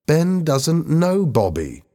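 high-pitched, slow reproach; exclaiming. A narrator's reading. Lisa points out the mistake to Helen, exclaiming. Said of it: "Lisa exclaimed".

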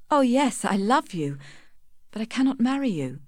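high-pitched, pained outburst at normal volume; distressed cry. A narrator's reading. Tess torn between love and refusing Angel, crying out mildly. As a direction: lift the voice in anguished protest. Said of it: "cried Tess".

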